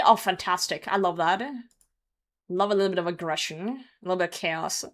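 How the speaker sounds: ordinary talk, nothing marked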